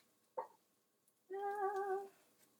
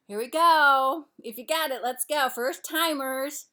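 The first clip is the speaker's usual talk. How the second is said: loud, higher, drawn-out announcement; rallying call; 5 semitones higher, 11 dB louder, slower than usual. Real, not acted. Host rallies first timers before tasting, loud and drawn out. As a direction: kick it off with a big shout-out.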